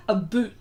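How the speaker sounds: 'boot' with a long rounded oo; Nova Scotia 'about'. Shown as a demonstration. Host repeating the regional about for viewers, long oo in 'boot'. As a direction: say 'A boot' for Canadian 'about'. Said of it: "in some places".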